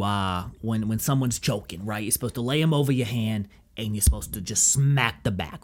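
lightly voiced instructor with an accent; put-on accent, understated caricature; instructor impression. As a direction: explain the drill as a comic, halting instructor. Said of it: "he was like".

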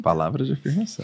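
chuckling through the words; laughing. Real, not acted. Joking comment with laugh.

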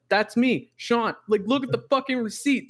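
high-pitched incredulous insistence; arguing with the delivery driver, high and exasperated; exasperated retold protest. Retold argument climax.

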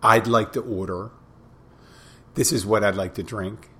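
curt, flat-toned order with no please; matter-of-fact customer. Retold or imitated. Rude customer ordering at the bar, curt and matter of fact. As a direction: bark the order like you're owed it. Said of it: "a tone that's kinda like matter of fact".

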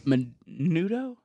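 Menudo? drawn out slowly syllable by syllable; slow sounded-out word. Shown as a demonstration. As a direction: stretch out Menudo? slowly, asking. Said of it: "Sound it out".

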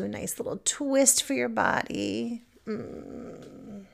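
unhurried stretch guidance with long pauses; guided meditation. Acted. Teacher guiding listeners through body stretches, calm meditation voice. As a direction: ease them through each stretch, savouring it.

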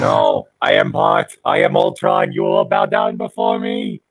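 menacing robot villain. Acted. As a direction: threaten like a robot overlord. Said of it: "sound like one of those Doctor Who aliens".

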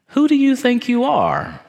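high-pitched, affronted demand; indignant challenge. Acted. Keepers of the status quo confronting Jesus, indignant. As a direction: pitch it way up, acting outraged.

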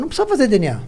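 hammed-up excited boast, voice climbing; exuberant punchline. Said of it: "Eu falei".

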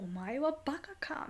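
mock angry man. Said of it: "めっちゃ怒ってる".

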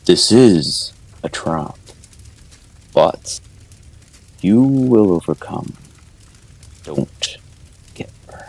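slow, solemn god speaking; booming divine voice. Acted. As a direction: speak slowly like a deity in someone's mind. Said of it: "this booming voice into the Chosen One's mind".

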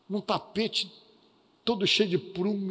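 ordinary talk, nothing marked

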